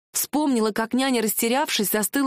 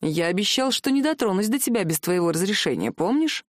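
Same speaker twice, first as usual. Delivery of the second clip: softly; 3 semitones lower than usual. Acted. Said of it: "сказал он мягко".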